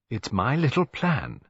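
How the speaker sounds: slow, gleeful little secret. A narrator's reading. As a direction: savour the plan with glee. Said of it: "said Missus Lacy gleefully".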